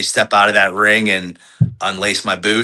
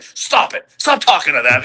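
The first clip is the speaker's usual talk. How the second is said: mock irritated hiss, then higher; half-whispered scolding aside; annoyed; 7 semitones higher than usual. Partner telling him off for chatting to fans, mock annoyed hiss. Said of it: "he gets all mad".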